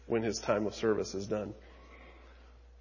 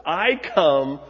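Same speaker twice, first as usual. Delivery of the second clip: emphatic angel Gabriel; 4 dB louder than usual. Acted. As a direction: announce yourself with authority. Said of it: "being emphatic about it".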